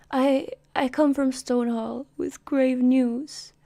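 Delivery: weary messenger. Acted. Exhausted rider arrives with grave news.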